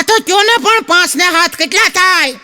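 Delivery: put-on child voice. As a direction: pester like a small kid. Boy voiced asking again.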